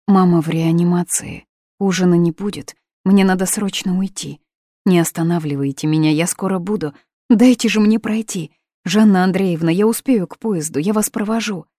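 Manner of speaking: loud hurried pleading; girl rushing out, loud and urgent. Acted. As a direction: push past them in a hurry.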